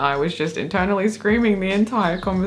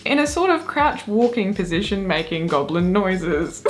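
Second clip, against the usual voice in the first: giggling; 3 semitones higher than usual. Real, not acted. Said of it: "if we keep giggling".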